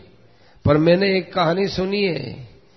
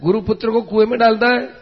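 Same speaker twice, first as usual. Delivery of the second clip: mildly raised, higher-pitched cry of protest; higher voice, mock outcry; retold alarmed shouting; 4 semitones higher, faster than usual. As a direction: retell onlookers crying out in disbelief. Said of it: "चिल्लाए".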